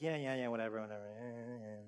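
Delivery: soft, bored yeah yeah whatever; dismissive brush-off. Retold or imitated. Believer shrugging off the gospel promise, soft bored brush-off. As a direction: wave it off without caring. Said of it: "we kinda just like".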